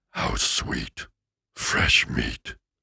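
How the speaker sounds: whispered, breathy put-on demon voice. Asked for a good demon line, the speaker answers in a demonic voice. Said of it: "Who has a better demon voice? Let's hear yours".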